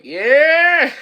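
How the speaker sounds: high, loud whoop of a cheer; excited cheer. Retold or imitated. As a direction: yell it out like a racer, breaking into laughter. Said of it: "He's like".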